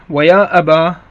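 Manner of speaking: يا أبا ending in a long ā, ya abā. Shown as a demonstration. Teacher shows students the alif form, clear demo. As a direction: draw out the final alif of يا أبا. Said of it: "بالألف".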